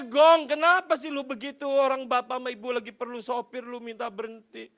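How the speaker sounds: put-on plea starting loud, then fading; feigned dismay. Boss pretending to mind the driver quitting, feigned dismay. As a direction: protest as if sorry to lose him. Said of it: "Saya ngomongnya".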